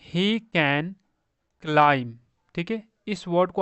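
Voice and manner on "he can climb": slow model reading. Shown as a demonstration.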